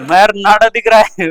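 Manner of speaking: hammed-up shocked question; shocked teacher. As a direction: gasp it out as the stunned teacher.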